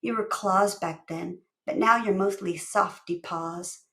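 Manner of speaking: slow and gentle; softened. Acted. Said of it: "Brianna's voice softened".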